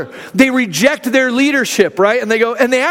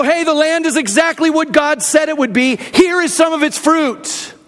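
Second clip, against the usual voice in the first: mock cheerful report; 4 semitones higher than usual. Preacher acting spies' report.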